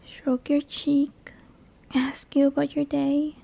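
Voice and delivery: a touch of sweetness, softly spoken; sweet. Pretend. Monster offering to be a blurry-faced friend, softly sweet. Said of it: "Or I could be sweet".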